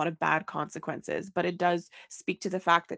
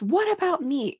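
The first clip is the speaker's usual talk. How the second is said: self-pitying plea; 9 semitones higher, 6 dB louder than usual. Retold or imitated. Voicing Anna's plea.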